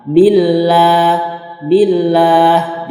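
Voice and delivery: BILLAH with a light, thin L, long open a; light lam. Shown as a demonstration. Teacher showing students the light lafaz Allah, light lam in BILLAH. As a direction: say "billah" with a light L and drawn-out "laa". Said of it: "dia akan menjadi ringan".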